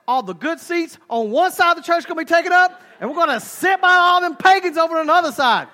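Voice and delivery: husband hurrying the wife along, swelling to high and loud; imitated nagging husband. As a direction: start with restraint, build to a mock rant. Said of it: "your husband walks in and says".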